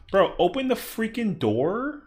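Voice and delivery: high, loud and slow plea; exasperated yell. Real, not acted. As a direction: beg loudly in frustration. Pleading with teammate.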